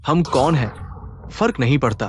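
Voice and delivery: drawn-out, slow and cold; menacing slow. Acted. Gang leader taunting the brother who asks who they are, slow and menacing. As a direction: let each word hang like a threat. Thug answers a challenge menacingly.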